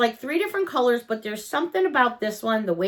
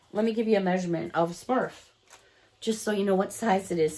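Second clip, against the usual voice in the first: talking while spinning in a chair; spinning in office chair; 2 semitones lower, 4 dB quieter, faster than usual. Real, not acted. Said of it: "Sorry, I'm spinning in the chair".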